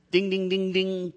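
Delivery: high playful ding-ding, like a quiz bell; game-show bell. Pretend. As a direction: ring out the right answer.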